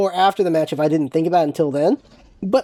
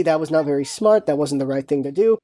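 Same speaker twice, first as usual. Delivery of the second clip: a softer, kind correction; gentle, softer correction; 7 semitones lower than usual. Shown as a demonstration. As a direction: lower and softer, kindly pointing out the mistake. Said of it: "I need to do more of the".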